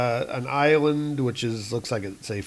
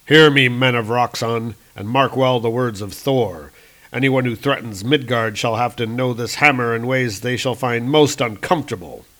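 loud proclamation from a god; booming god voice; 4 dB louder than usual. Acted. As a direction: declare it like Thor. Thor warns Roxxon men.

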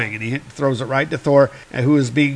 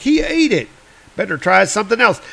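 stunned cowboy; 6 semitones higher, faster than usual. Retold or imitated. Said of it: "and Sundance's like".

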